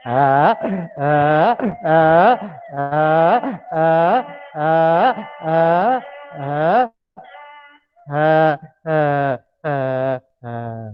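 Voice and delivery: a light, repeated donkey ah ah; mild donkey braying sounds. Shown as a demonstration. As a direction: bray like a donkey, fading out. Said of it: "How does a donkey sound".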